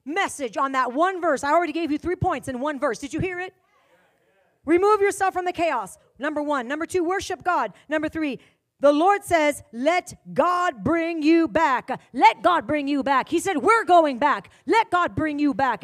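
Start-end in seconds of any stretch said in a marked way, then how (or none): 4.6-15.8 loud, forceful preacher commanding spirits; fiery preaching. Acted. Preacher rebuking spirits from the pulpit, forceful. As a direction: declare it with full force from the pulpit.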